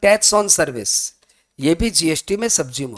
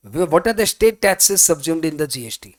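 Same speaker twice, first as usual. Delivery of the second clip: very slow, spaced exam question; exam question read; much slower than usual. Shown as a demonstration. Teacher quoting the exam question to students, slowly. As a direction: read What are the state taxes subsumed in the G S T word by word. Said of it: "exam में कई बार ऐसे पूछ लेता है".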